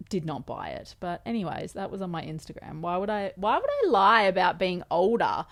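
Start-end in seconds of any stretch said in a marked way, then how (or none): 2.8-5.4 louder, incredulous rhetorical question; loud emphasis, mildly indignant; indignant protest. Real, not acted. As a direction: protest as if the doubt is absurd. Protesting doubt about her age.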